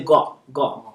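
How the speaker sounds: "Ga" said as "gaw"; rounded vowel. Shown as a demonstration. Teacher giving the actual sound, rounded "Ga". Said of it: "it's one of those with the R sound".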